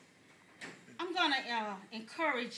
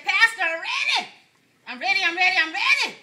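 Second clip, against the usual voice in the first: higher, louder, bursting with eagerness; eager church member; 4 semitones higher, 9 dB louder than usual. Retold or imitated. Church member telling pastor she's ready, excited. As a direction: plead like you can't wait another second.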